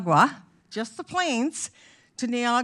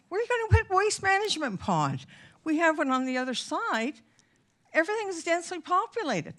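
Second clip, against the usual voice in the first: excited. Real, not acted. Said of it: "Boy, am I getting excited here".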